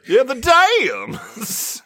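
"dams" stretched long on a rising pitch; drawn-out emphasis. Acted. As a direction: slowly draw out "dams", lifting the end high. Repeating item with emphasis.

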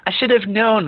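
said with an amused smile. A narrator's reading. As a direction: let a smile come through. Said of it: "a smile in his voice".

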